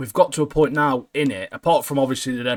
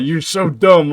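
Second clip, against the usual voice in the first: mock rude insult; 4 semitones higher, 6 dB louder, slower than usual. Quoting Barrow insulting assistant.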